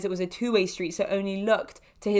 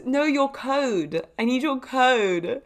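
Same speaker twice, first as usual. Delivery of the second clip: retold correction; 4 semitones higher, much slower than usual. Driver correcting her in retold scene.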